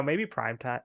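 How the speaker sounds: ordinary delivery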